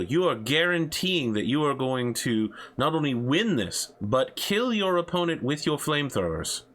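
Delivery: lightly voiced talk show host; upbeat broadcast host voice. Hosts the in-game show.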